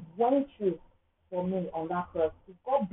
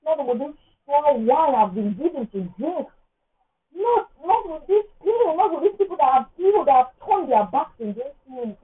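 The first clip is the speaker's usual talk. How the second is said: loud raised protest; dramatic loud complaint to God; dramatic refusal; 5 semitones higher, 6 dB louder than usual. Pretend. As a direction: refuse it loudly, hamming up the despair. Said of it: "being dramatic".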